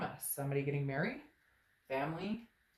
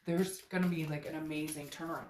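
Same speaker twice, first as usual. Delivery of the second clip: voice cracking. Real, not acted. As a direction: voice catches on the excitement. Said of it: "my voice just cracked when I said that".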